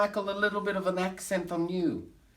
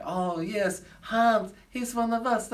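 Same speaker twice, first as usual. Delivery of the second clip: mock claiming him; 5 semitones higher, slower than usual. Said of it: "now they're like".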